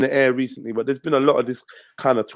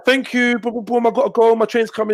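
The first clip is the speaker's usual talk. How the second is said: hurried thanks; 6 semitones higher than usual. Retold or imitated.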